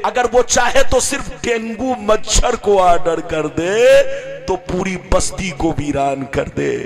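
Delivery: loud, rising sermon cadence; a preacher roaring God's power to the crowd; fiery preaching. Acted. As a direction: drive it home to the congregation. Preaching at full force.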